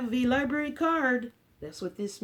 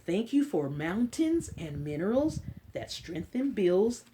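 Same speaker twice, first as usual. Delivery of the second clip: put-on reading to children. Librarian reading an Earth book to kids, storybook voice. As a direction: read it gently to a class of little ones.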